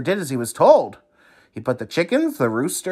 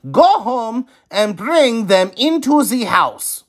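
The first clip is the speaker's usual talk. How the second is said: higher firm instruction; wise man instructing; 10 semitones higher, 5 dB louder than usual. A narrator's reading. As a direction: give the order like a sage. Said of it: "the wise man said".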